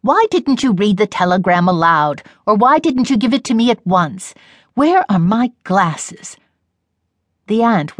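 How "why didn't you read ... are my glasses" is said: lightly voiced impatient mother. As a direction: press her for the telegram, mildly annoyed. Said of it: "said her mother impatiently".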